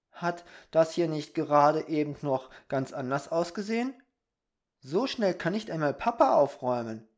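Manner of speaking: a hint of an amazed little boy; lightly voiced Peter, puzzled. Peter marvels at the changed treehouse, puzzled.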